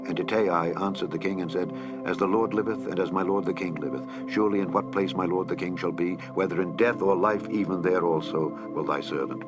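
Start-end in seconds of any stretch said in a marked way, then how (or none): none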